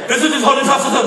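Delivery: high, loud string of lisped S sounds; exaggerated lisping outburst; double lisp. Shown as a demonstration. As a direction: sputter wildly through every double S. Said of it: "Så det verste er det".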